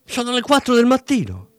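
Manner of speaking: high-pitched hysterical wife shouting into the phone; hysterical yell. Acted. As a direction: shriek it in panicked fury. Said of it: "gridò isterica la moglie".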